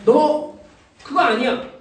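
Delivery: firm scold, loud first word. Shown as a demonstration. Teacher showing children what a rebuke is, scolding. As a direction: demonstrate a short, firm telling-off. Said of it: "이게 꾸짖는 거예요".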